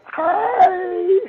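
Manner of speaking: lightly voiced falsetto greeting; a man faking a woman's hello; girl voice. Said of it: "he went girl".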